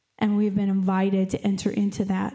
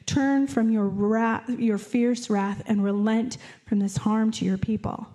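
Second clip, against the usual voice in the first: pleading Moses. Acted. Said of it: "Moses pleaded".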